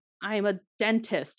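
ordinary talk

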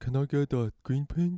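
put-on Canadian accent. Working in a retail shop, he mimics a customer asking for the screen print, mock Canadian accent. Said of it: "That's what Canadians sound like".

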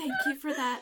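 soft, close, gentle, hushed half-whisper. Voicing a character thanking someone while squeezing their hand: half-whispering.

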